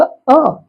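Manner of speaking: अ as a short, open vowel on its own; short isolated अ, falling; letter sound. Shown as a demonstration. Teacher gives pupils the vowel sound, short अ. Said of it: "इसका उच्चारण होगा".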